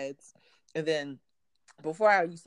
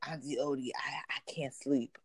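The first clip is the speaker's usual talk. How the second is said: whisper; 4 semitones lower, 5 dB quieter than usual. Retold or imitated. Creepy nephew whispering.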